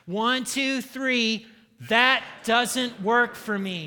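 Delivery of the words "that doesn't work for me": half-hearted stand; firm but without real bite; weak firm line. Shown as a demonstration. Preacher models a limp refusal, half-hearted. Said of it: "No, that is pathetic".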